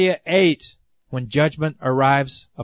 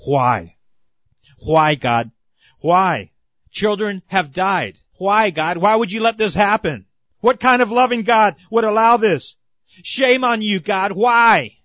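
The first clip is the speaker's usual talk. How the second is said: rising, pleading cries, climbing higher toward the end; anguished screaming at God; 4 semitones higher than usual. Retold or imitated. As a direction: hurl each why at heaven, building to higher pitch. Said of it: "screaming to the heavens and screaming the words".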